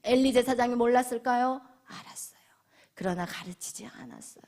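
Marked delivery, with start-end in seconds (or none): 1.8-4.4 whisper. Real, not acted. Preacher whispering to the congregation about Eli. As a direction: drop to a hushed whisper. Preacher dramatizes Eli's silence.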